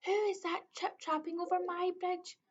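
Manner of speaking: lightly growled troll demanding who crosses his bridge; troll roaring. A narrator's reading. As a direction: roar it as the terrible troll. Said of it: "and roared".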